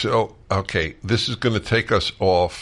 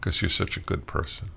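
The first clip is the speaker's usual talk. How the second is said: choked up; 5 dB quieter than usual. Real, not acted. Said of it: "I'm choking up".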